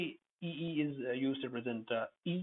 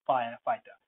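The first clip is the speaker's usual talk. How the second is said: Firefighter with both "fi" syllables punched; stress on both fi's; 6 dB louder than usual. Shown as a demonstration. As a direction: hit FI in each half of Firefighter. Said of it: "the two fi's will be stressed".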